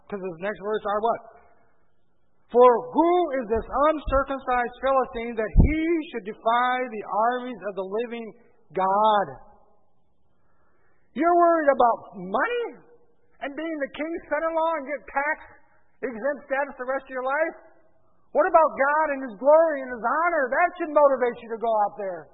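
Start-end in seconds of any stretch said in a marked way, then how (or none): 2.5-9.3 loud, outraged challenge; indignant challenge. Acted. David challenging the men over Goliath's defiance, indignant. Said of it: "this is how he said it to them". 11.2-22.3 high, loud indignant rebuke; incredulous rebuke. Acted. David shaming the men who think of money, indignant. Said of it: "this is how he said it to them".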